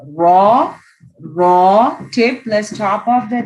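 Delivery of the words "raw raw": "Raw" with a single tap, no trill; Arabic letter ra. Shown as a demonstration. Teacher modelling the letter ra for students. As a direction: say "Raw" with a light tap and no vibration. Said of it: "There shouldn't be any vibration sound".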